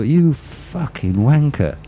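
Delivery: playfully aggrieved reaction; mock indignation. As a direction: draw out the insult in mock disbelief. Mock-indignant thought at doctor's prank.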